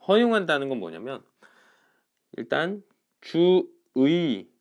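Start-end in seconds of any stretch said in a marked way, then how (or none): 3.2-4.5 주의 very slow, syllables apart, full diphthong 의; higher, louder, drawn-out 주의; standard full 의. Shown as a demonstration. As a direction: stretch 주 ... 의, gliding eu to ee. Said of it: "의로 발음하는 게 원칙인데".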